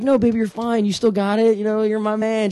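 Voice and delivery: talking him up. Retold or imitated. Girlfriend reassures her doubting boyfriend, talking him up. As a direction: imitate a girlfriend bolstering his ego. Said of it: "talking me up or whatever".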